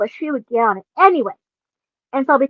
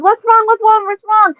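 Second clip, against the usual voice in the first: higher hurried concern; worried ride man checking on her; alarmed operator; 9 semitones higher, 4 dB louder than usual. Retold or imitated. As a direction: rush in asking what's wrong. Ride operator rushing over.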